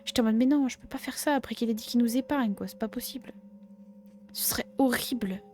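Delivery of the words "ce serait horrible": whispering. Real, not acted. Upset about killing.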